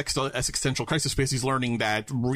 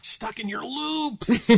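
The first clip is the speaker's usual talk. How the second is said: mock echo; 12 semitones higher, much slower than usual. Echoing with mock voice.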